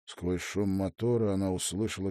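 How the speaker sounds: usual speaking voice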